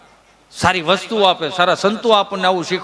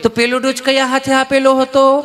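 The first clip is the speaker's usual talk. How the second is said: sweetly asking; 4 semitones higher than usual. Retold or imitated. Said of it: "એટલું પ્રેમથી પૂછ્યું કે".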